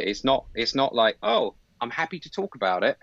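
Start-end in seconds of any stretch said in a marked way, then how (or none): 1.2-3.0 insincere reply. Retold or imitated. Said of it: "you've heard those replies".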